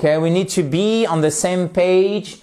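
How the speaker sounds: slow, careful English example; teacher reading example aloud; slow model sentence. Shown as a demonstration. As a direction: say it slowly for the class.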